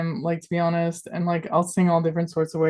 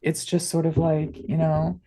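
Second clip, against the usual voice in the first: murder mystery podcast. Shown as a demonstration. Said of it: "a murder mystery podcast voice".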